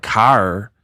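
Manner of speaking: CAR with a heavy drawn-out pirate R, low; mocked pirate R. Puzzled at how she says car, mock pirate R. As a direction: lean on the R in "car". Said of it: "who says car like that".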